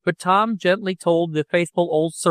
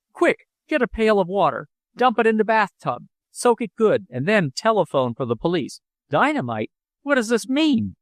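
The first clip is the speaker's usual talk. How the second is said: higher, rushed alarm; panicked; 7 semitones higher than usual. Acted. Father panicking about dynamite, high alarmed orders. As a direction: bark urgent orders in a fright.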